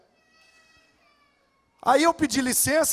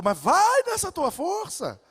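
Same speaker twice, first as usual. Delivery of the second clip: slow, higher mock pastor voice; pastor's reply; 7 semitones higher, slower than usual. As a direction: lightly play the older pastor. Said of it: "Ele falou".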